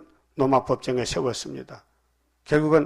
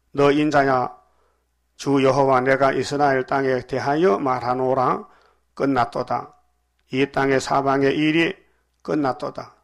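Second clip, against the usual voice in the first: loud, declaimed Bible verse; scripture reading; 4 dB louder than usual. Acted. Preacher reads God's word to the congregation, loud scripture reading.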